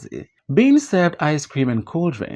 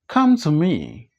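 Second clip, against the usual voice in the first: pompous; slower than usual. Acted.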